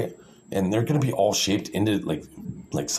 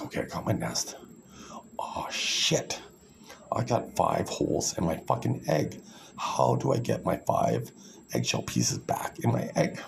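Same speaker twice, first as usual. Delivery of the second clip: sarcastic panic; 4 semitones lower, 4 dB quieter than usual. Retold or imitated. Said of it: "I'm being sarcastic here".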